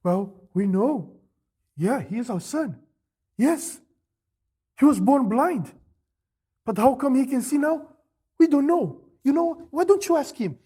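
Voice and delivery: mild mock timid parents; lightly voiced, like scared little dogs. Parents dodging the Pharisees, a hint of fear. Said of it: "like scared little dogs".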